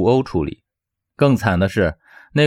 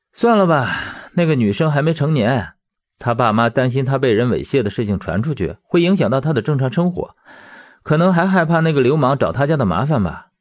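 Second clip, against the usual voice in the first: higher-pitched, resigned reassurance; consoling; 3 semitones higher than usual. Acted. Teacher excusing the girl to his friend, consoling. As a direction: talk him down with understanding. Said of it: "他反倒安慰起了魏正义".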